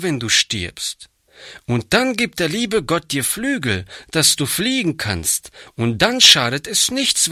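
put-on a little girl coaxing the boy toward heaven; pleading girl Hannchen. A narrator's reading.

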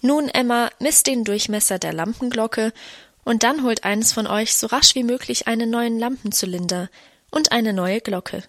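usual speaking voice

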